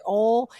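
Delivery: Southern "ol" with the L turned to W, punched loud; "ol" ending in a W sound; dropped L. Shown as a demonstration. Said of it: "L in most words. I use a W".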